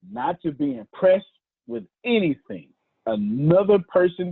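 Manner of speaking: measured phrases with long gaps between them; slow delivery. Real, not acted. Preacher driving the point home to listeners, slowly. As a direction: repeat it deliberately, piece by piece. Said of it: "I'll say it slowly".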